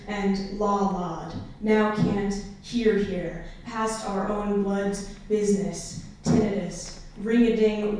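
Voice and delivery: measured poem recital with deliberate phrasing; poetry reading. Acted. Poet reading own war poem to an audience, measured recital.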